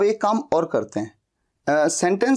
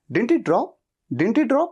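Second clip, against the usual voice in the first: Didn't he drop, quick and run together, a little higher; natural contraction; 5 semitones higher, much slower than usual. Shown as a demonstration. Teacher shows how people really say it, quick and casual. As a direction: run it together as everyday speech. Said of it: "क्या कहते हैं?".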